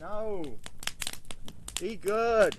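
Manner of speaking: scolding dog. Real, not acted. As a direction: tell the dog off quickly.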